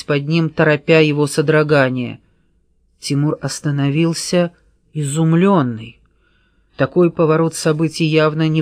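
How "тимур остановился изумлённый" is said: ordinary delivery, nothing marked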